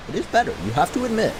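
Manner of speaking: playful insistence. Real, not acted.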